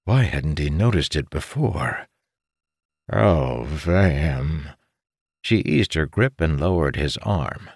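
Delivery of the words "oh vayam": smitten murmur. A narrator's reading. Bewitched man sighs her name.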